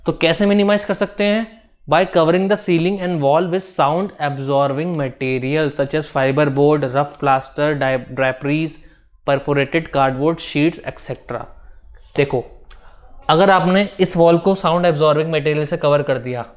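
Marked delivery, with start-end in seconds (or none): 1.9-11.4 reading notes out word by word for students to copy; slow dictation. Shown as a demonstration. Teacher dictating a definition to the class, slow and measured. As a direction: dictate it slowly and evenly, like notes to write down.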